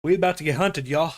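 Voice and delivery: excited alarm. Acted. Reacting to the villain's entrance.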